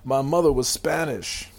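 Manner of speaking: lightly mocked Latino accent; a hint of the botched Japanese accent; Ichiro. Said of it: "We're doing some serious, uh, impersonations".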